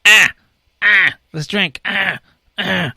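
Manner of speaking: high loud party yells; party whoops. Acted. Party yelling over tequila.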